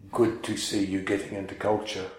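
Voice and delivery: put-on ironic praise in a light caricature accent; Sangharakshita caricature. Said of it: "it's a caricature of his accent".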